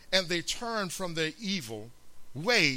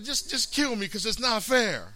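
Jonah pleading; 5 semitones higher, 5 dB louder than usual. Acted. Jonah's angry plea.

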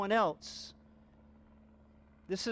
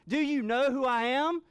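higher and louder, a proclaiming shout; exclaiming; 5 semitones higher, 4 dB louder than usual. Acted. Preacher speaks as Jesus rebuking the father's doubt, proclaiming loudly. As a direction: declare it with full authority. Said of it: "he's exclaiming to this father".

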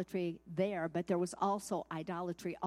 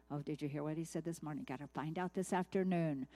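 quick, lower mock news chatter; mock gossip; 5 semitones lower than usual. News watcher passing on the morning's scare, mock gossip. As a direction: toss it off fast and low, imitating hooked viewers.

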